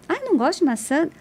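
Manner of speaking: incredulous echo. Retold or imitated. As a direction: toss the words back in mock disbelief. Acted dialogue about disliking apples.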